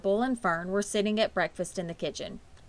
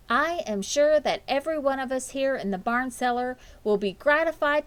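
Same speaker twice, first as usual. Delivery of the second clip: higher, formal speech voice, lightly done; a hint of a grand announcement; speech-making spider; 5 semitones higher than usual. Fern retelling Charlotte's barn speech, formally. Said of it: "She made a speech".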